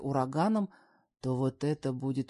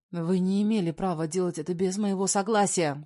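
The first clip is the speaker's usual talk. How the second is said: louder protest; mother furious at DNA test, louder; indignant outburst; 3 semitones higher, 5 dB louder than usual. Acted. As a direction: leap up and protest.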